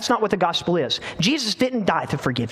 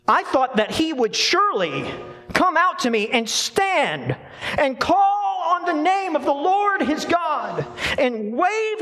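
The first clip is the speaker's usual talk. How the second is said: indignant Naaman; 7 semitones higher than usual. Acted. Naaman's angry speech, read aloud.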